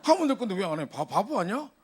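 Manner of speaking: high, loud frustrated scolding; exasperated inner rant. Retold or imitated. Pastor recalls scolding the student in his head, loud and exasperated. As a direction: vent like an annoyed older brother. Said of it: "내가 뭔 생각 드는지 압니까".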